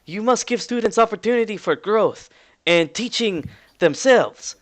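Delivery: put-on high-pitched, protesting Russian accent; Russian-accented lecturing objection. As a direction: argue firmly in a Russian accent. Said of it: "a familiar Russian voice saying".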